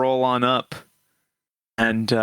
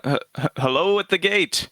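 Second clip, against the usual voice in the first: raised pitch, stuttered hello; hailing call; 5 semitones higher than usual. Acted. Traveller hails guards from a distance, hesitant call. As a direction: call out haltingly to someone ahead.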